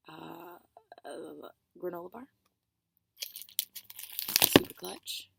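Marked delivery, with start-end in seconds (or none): 4.4-5.3 excited. Real, not acted. Loud excited exclaim.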